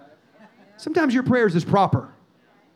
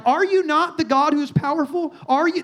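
higher-pitched, bold challenge to God; gutsy challenge; 6 semitones higher than usual. Retold or imitated. Preacher voicing a gutsy prayer to God, boldly challenging. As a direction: put it to God as a daring question. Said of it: "That's gutsy".

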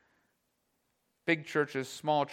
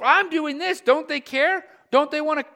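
higher, louder self-righteous outrage; hammed-up bitter complaint; mock indignation; 7 semitones higher, 5 dB louder than usual. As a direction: huff about the lazy ones. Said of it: "we get so".

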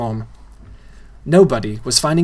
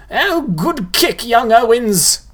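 much higher, slow, squawky ghoul voice; squawking ghoul; 10 semitones higher, 4 dB louder, slower than usual. A narrator's reading. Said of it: "squawked the shortest one".

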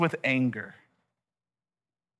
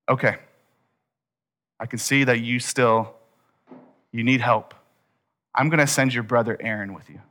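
lower, settled, relenting tone; calm concession; 3 semitones lower than usual. Acted. God conceding help to Moses, calm and relenting. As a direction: ease down and give in gently.

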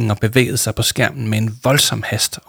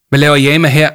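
uncertain voice; 5 semitones higher, 7 dB louder than usual. Acted. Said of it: "med usikkerhed i stemmen".

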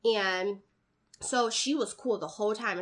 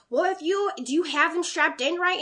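mocking the lady; 7 semitones higher, 4 dB louder than usual. Lady jumps in her face.

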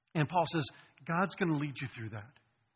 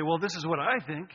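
bad French accent. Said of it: "Terrible accent".

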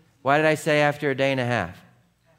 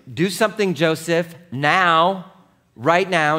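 high, loud nagging wife; frantic mother orders her husband to do something now; urgent demand; 5 semitones higher, 6 dB louder than usual. Retold or imitated. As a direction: push him to act right now, louder and higher. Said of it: "Mary's like".

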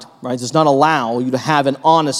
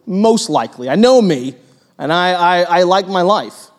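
shrugging Peter. Pretend. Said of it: "Is he supposed to go".

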